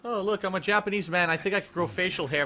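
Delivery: high, silly mock Japanese man voice. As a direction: ham up a dishonored samurai.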